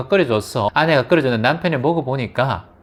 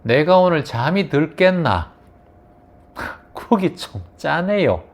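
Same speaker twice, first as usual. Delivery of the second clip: tactful husband demo; 3 semitones higher than usual. Shown as a demonstration. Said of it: "남편분들은 이렇게 하셔야 돼요".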